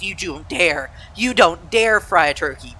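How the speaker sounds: slow, emphatic retold warning; stern warning. Child warning dad off frying the turkey, mock-stern. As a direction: warn him off, leaning on each word.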